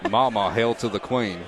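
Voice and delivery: joking Southern-tinged attempt at British; botched British accent. Host mocking guest's failed attempt, botched British accent. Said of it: "trying to do a British one".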